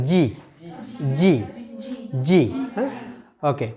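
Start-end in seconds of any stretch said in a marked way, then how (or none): 0.1-2.4 জি with a little air released; emphasized G. Shown as a demonstration. Teacher models tongue contact, airy emphasized জি. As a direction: press tongue to teeth roots and release জি with breath. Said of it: "একটু বাতাস বেরোবে".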